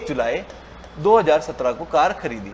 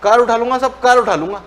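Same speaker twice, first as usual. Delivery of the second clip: mock angry threat; 2 semitones higher than usual. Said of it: "तो मेरे को बड़ा गुस्सा आ गया".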